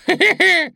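very high, loud squealing cackle; a short squeal of a laugh; clowning soldier squealing with laughter. A narrator's reading. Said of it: "визгливо хохотнул".

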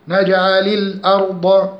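نجعل الأرض joined with an i on the lam; linking kasra. Shown as a demonstration. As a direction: link نجعل الأرض as naj'alil-arda. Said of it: "اتحركنا اللام بالكسر".

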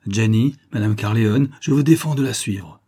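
husband loudly forbidding his bride; commanding cry. Acted. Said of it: "s'écria le mari".

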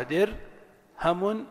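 درهم slowly as dir...hamun; syllable-by-syllable. Shown as a demonstration. Teacher explains each letter's vowel, slowly split. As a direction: hold درهم apart after dir. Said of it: "والراء ساكنة والهاء مفتوحة".

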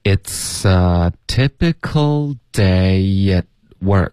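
very slow, linked model sentence; slow read-through. Shown as a demonstration. Teacher reads the whole sentence for learners, slowly. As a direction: stretch each word out for learners to follow. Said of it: "整个句子我们来读一下".

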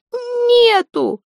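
very high choked shriek; shrill terrified cry. Acted. Zateya shrieks her denial while being strangled. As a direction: scream the denial as the grip tightens.

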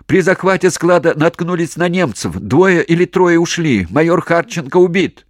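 loud, high, urgent yelling; shouting report. Acted. Commander yelling the bad news to HQ. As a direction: report the losses over shellfire.

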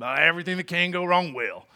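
a hint of a grumpy old man; lightly voiced porch grump. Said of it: "That was my grumpy old man voice".

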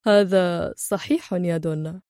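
slow, quiet, amused sarcasm; calm mockery. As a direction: savour the irony, unhurried. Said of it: "صوت هادئ يقول في سخرية".

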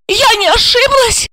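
very high, incredulous question; outraged cry. A narrator's reading. Wife questioning what husband said, outraged cry. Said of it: "закричала она".

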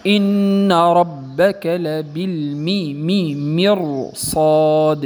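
slow chanted مرصاد with a heavy ر before the ص; Quran recitation. Shown as a demonstration. Teacher recites a verse showing the heavy ra. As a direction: recite it drawn out, ر full and heavy. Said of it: "مثال قوله تعالى".

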